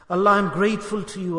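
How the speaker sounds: a plain, sincere thank you to Allah. Shown as a demonstration. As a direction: say it simply, from the heart. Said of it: "You have to say this".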